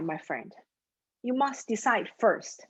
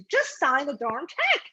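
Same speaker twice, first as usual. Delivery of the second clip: mock exasperated order, higher-pitched; fed up; 4 semitones higher than usual. Young teller had enough of this guy, fed up. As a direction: play a teller who has had enough. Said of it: "just had enough of this guy".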